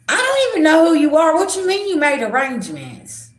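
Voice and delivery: loud, high, indignant disbelief; confronting the stranger who made the arrangements, loud and indignant; incredulous outburst. Retold or imitated. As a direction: call out the stranger's nerve.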